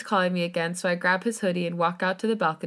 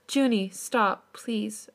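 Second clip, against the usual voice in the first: tearful plea; 3 semitones higher, much slower than usual. Acted. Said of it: "I wipe away my tears".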